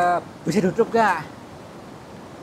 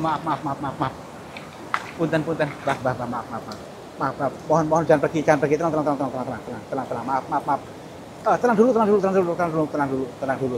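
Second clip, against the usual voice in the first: hushed, repeated apologies, much softer; soft pleading; 4 semitones lower, 6 dB quieter, faster than usual. Real, not acted. Begging the spirit not to leave, hushed and soothing.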